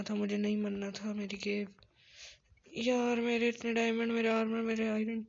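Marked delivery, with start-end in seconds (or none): 2.8-5.2 raised, pleading lament; higher, louder whine of dismay; lamenting loss. Real, not acted. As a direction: bemoan each lost treasure loudly. Mourning lost items in game.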